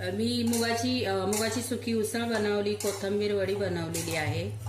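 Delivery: high, loud domestic call. Real, not acted. Mother offering child meal choices, loudly calling out. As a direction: project to someone in another room.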